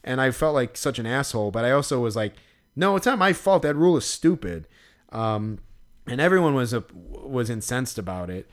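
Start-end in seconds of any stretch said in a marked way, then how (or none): 2.8-4.7 higher, indignant protest; defiant. Retold or imitated. Player protesting the helmet rule, mock indignant. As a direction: insist it's not your fault. Defiant retold inner thought.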